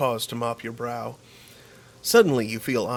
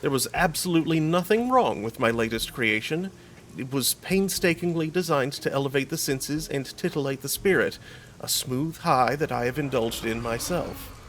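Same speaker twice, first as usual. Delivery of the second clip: offended; 3 semitones higher than usual. Acted. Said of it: "straightens abruptly ... juts his chin out".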